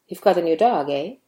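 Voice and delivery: firm statement, then EH lifting into a question; rising confirmation "eh". Shown as a demonstration. Teacher wants to know whether it's true, rising "eh". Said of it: "A has rising intonation".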